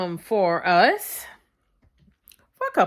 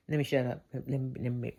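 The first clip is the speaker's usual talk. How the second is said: quiet; 6 semitones lower, 10 dB quieter, faster than usual. Real, not acted. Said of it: "let me be quiet".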